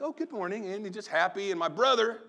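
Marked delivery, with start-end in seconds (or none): 0.0-0.7 chirpy mother. Retold or imitated. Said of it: "my mother just chirping around the house".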